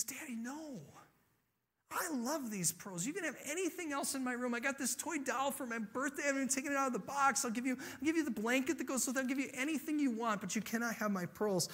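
put-on high, fast child's protest; angry little girl. Five-year-old refuses her dad, understated anger. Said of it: "And now she's angry".

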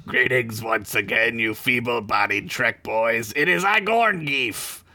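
lightly voiced Gorn, deliberate delivery; a hint of Gorn, words drawn out at the end. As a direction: read it as a pompous alien reptile. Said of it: "you do a Gorn voice this time".

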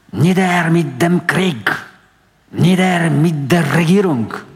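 high, slow, drawn-out shouted slogan in German; veteran's yell. Acted. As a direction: bellow it at the officer like a provocative old soldier. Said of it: "wrzasnął nagle wąsaty weteran".

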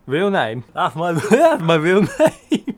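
talking around an oversized tongue; thick-tongued mumble through a huge tongue; big tongue voice. Pretend. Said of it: "I've got quite a large tongue".

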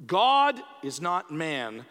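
slow, weighty declaration, leaning hard on GOD; loud proclamation. Acted. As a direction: proclaim it slowly and firmly. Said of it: "said in a loud voice".

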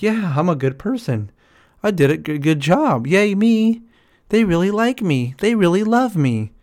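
hammed-up yay-me voice; mock proud people-pleaser. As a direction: cheer yourself on, naively pleased.

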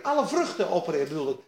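ordinary talk, nothing marked

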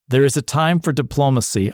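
lightly accented movie quote, badly faked French; half-hearted French-accented film line; attempted French accent. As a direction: try a French accent and not quite land it. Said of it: "I guess I am doing the accent".

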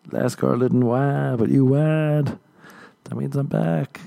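a hint of a triumphant straight man; smug boyfriend gloating. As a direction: savour the win like a proud lover. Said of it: "Then Tony be like".

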